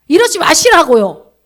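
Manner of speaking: loud slow scolding; forceful rebuke. Real, not acted. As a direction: slam it down slowly, firmly. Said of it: "preacher rebukes loudly". (크고 느리게 꾸짖듯)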